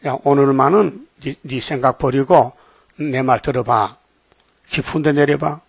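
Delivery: slow and deliberate, voice dropped; measured instruction. Acted. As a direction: give a calm, drawn-out instruction as Jesus. Acted Jesus instructing Peter.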